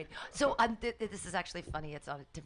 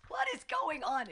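slow, high, confused question; baffled audience voice; 11 semitones higher, 4 dB louder, slower than usual. Retold or imitated. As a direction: sound bewildered by the heat. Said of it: "people were like".

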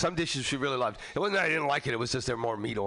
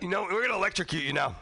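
mock polite guard; 6 semitones higher, faster than usual. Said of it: "they're like".

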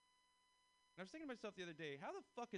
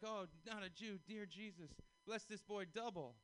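alarmed church lady; 5 semitones higher than usual. Retold or imitated. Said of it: "the lady was like".

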